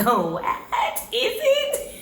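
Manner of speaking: a laughing oh what, then a squeaky high is it; mock disbelief, voice jumping up. Real, not acted. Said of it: "And I'm like".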